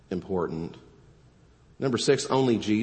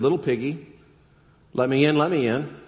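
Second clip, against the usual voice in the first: lightly voiced wolf, higher and a bit louder; a hint of the wolf pleading at the door; wolf calling; 5 semitones higher, 4 dB louder than usual. Wolf at the brick house door, lightly voiced higher call.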